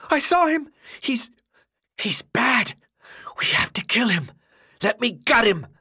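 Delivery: high, frantic shout. Acted. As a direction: yell the accusation at the crowd. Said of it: "Ben shouted".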